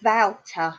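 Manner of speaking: "Wouter" opened with v, rhyming with doubter; imitated foreign mispronunciation. Teacher retelling what the pupil kept on about, imitated mispronunciation. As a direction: mimic a learner saying "Wouter" as vow-ter. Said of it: "She kept on about".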